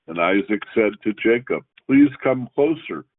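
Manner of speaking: measured, formal reading of the Torah text; scripture reading. Acted. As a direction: read each verse out steadily like in synagogue.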